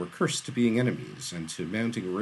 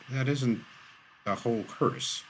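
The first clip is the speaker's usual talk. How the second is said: halting, effortful, pitched up; winded effort; 4 semitones higher than usual. A narrator's reading. Shaw corrects the arsonist, winded. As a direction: break the phrase as breath runs short. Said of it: "he managed".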